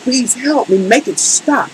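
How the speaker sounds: softly pleading, understated; retold prayer. Storyteller re-enacts praying to God on fire, soft plea. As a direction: beg quietly for the pain to end. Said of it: "I prayed like just basically".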